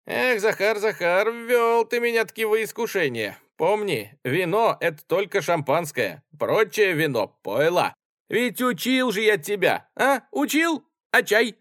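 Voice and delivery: high, loud mock-reproachful scolding. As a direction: wag a finger at him. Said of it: "укоризненно сказал". (укоризненно пьяный офицер)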